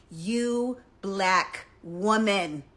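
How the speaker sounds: slow, loud, drawn-out mock of the comment; mocking quote. Quoting a hater's comment, slow loud mockery. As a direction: drag it out like the commenter's sneer.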